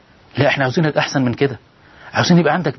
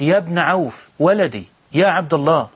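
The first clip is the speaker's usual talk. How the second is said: raised, slow call to her son; mother calling loudly; 4 semitones higher than usual. Retold or imitated. Mother calling her son loudly across the house. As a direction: call out to your son from afar, a bit higher. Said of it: "نادت بأعلى صوتها".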